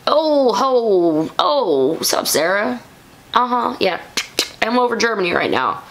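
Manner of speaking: lightly put-on jolly Santa voice; Fresno Bob as Santa. Reviewer imagining Santa taking a call, playful impersonation. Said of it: "I'm just imagining Fresno Bob like".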